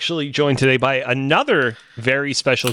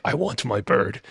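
villain impression; 3 semitones lower, 4 dB quieter than usual. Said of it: "M C U was what's-his-face being like".

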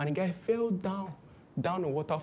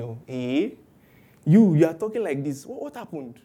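nagging relative. Retold or imitated. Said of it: "And they meet you and say".

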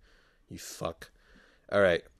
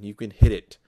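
loud punchline; 12 dB louder than usual. Real, not acted.

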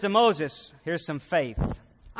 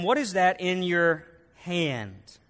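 voice of God; slower than usual. Acted. God speaks to Moses.

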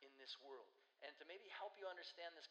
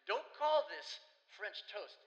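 loud, high, slow mock protest; hammed-up French outrage, words stretched out; imitated French friend; 6 semitones higher, 15 dB louder, slower than usual. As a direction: object indignantly as the visitor from France. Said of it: "He's like".

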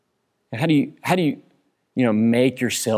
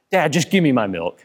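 put-on kid voice; 2 semitones higher than usual. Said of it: "this is how a conversation ... plays out".

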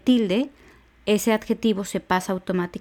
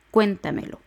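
"cuéntamelo" with the weight on "cuén"; stress on cuén. Shown as a demonstration. Teacher showing where the accent goes, stress on "cuén" in "cuéntamelo". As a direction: hit the first syllable of "cuéntamelo". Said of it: "el acento va en la E".

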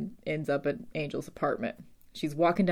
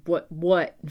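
mock-intense challenge, a touch louder; 5 dB louder than usual. Buffy pinning a student to the locker, mock intense. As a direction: throw it out as a jumpy, lightly acted threat. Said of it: "She's super, like, intense".

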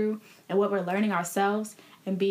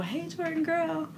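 voice of God; 8 semitones higher than usual. Retold or imitated. God's voice, retold.

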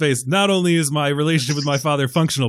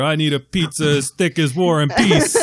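mock Chicago accent. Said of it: "That is the most Chicago accent".

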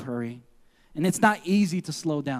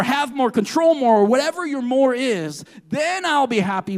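mildly acted, higher-pitched insistence; self-reliant insistence; 4 semitones higher than usual. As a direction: voice someone pushing God aside, pitched up. Voices the hurried person defying God.

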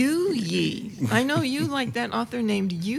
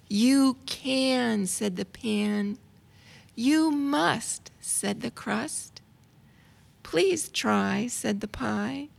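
put-on reading to children; much slower than usual. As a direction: read it like a picture book to a child. Reads rhyming children's book aloud.

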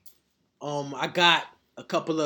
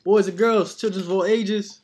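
booming showman's welcome; ringmaster; 3 semitones higher, 4 dB louder than usual. Acted. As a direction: announce it like a circus ringmaster. Podcast host opens like ringmaster.

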